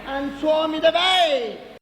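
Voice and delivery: slow shout. Acted.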